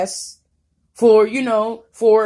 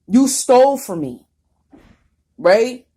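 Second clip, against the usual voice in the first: angry shout; 4 semitones higher, 6 dB louder, slower than usual. Real, not acted. Angry rant at tormentors.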